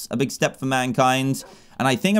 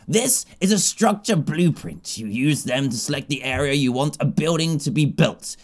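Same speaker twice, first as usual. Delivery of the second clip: goddess voice. Acted. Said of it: "the goddess's voice is like this".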